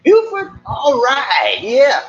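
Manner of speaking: loud, drawn-out cheer of recognition; excited recognition. Real, not acted. Streamer hails a viewer from down home, excited recognition.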